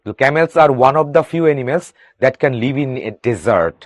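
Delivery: reads each English word slowly and clearly for the class; slow reading aloud. Shown as a demonstration. Teacher reading the textbook sentence to students, slow and deliberate. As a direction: spell it out slowly so students can follow.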